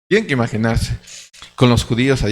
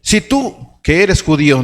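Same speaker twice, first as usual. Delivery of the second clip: confronting Peter; 5 semitones higher, 3 dB louder, slower than usual. Retold or imitated. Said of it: "delante de todos le dije".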